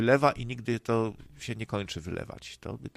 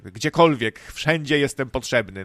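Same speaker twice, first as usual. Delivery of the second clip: pompous politician; 6 dB louder than usual. Retold or imitated. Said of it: "jak polityk rasowy polski".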